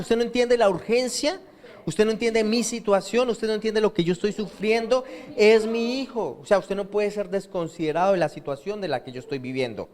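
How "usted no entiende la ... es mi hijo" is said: higher-pitched, urgent plea to Jesus; desperate father pleading. Acted. Official begging Jesus to come, pitched up and urgent. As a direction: press it like a father whose son is dying.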